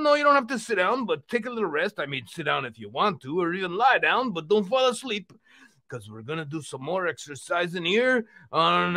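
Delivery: hearty exercise-show puppet host; rally everyone like a cheery cartoon uncle; lively uncle character, punching the calls to action; jovial puppet uncle. Puppet Uncle Vino hosts workout.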